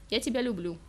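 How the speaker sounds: dutiful and dull, тебя said with no feeling; obedient. Acted. Girl obeys her boyfriend's demand, dutiful and dull. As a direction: recite Я тебя люблю like a chore. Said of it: "послушно произнесла девушка".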